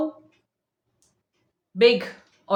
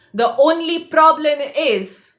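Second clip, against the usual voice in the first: slow, louder and higher, a stern edge; sounding angry; 4 semitones higher, 4 dB louder, slower than usual. Real, not acted. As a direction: press each word as if scolding. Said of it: "if I sound angry".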